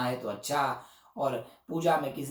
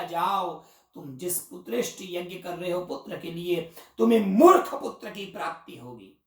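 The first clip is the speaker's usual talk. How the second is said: loud, raised furious curse; angry curse; 3 semitones higher, 4 dB louder than usual. Retold or imitated. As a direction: hurl the curse in anger. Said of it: "Gobhil मुनि को गुस्सा आ गया". (क्रोध में ऊँचे स्वर में श्राप)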